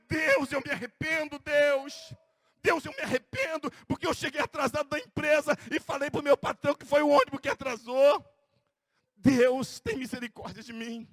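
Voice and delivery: shouted prayer of repentance; loud repentant plea. Pretend. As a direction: model a pleading confession to God. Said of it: "diz pra Deus". (súplica de arrependimento em voz alta)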